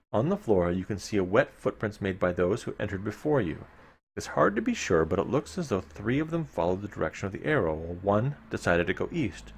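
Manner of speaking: measured gamebook reading to the listeners; story narration. A narrator's reading. Host reading gamebook text to listeners, storyteller narration. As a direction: read the dungeon text like a storyteller. Reads gamebook passage aloud.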